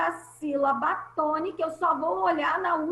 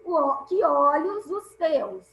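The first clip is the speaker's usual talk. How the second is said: slow, deliberate verse reading; 3 dB louder, slower than usual. Shown as a demonstration. Teacher reads a second verse example to the class, slowly. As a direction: let the vowels run together as you read. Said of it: "O que termina em e e o o termi".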